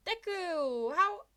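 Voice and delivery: high, loud startled cry; shocked cry. Acted. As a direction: blurt it in disbelief. Classmate shocked.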